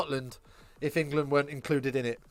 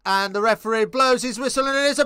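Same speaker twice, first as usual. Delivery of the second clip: high, loud, building commentary; excited play-by-play; 8 semitones higher, 6 dB louder than usual. Real, not acted. Commentator announcing a penalty to England, excited shout. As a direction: call the penalty with rising excitement.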